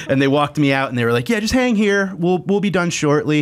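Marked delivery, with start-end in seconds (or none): 1.3-3.4 high, politely placating imitation; mock nicely. Crew imitated nicely telling him to wait outside, placating. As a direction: imitate someone nicely brushing you off, pitched up. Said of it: "like, nicely was like".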